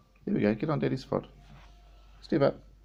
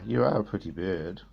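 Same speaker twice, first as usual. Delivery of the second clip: teaching a parrot, low; 5 semitones lower than usual. Real, not acted. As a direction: drop the voice down to coax the bird. Coaching parrot, low take.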